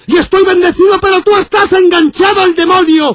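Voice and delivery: furious priest. Acted. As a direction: denounce him as possessed. Priest shouting accusations.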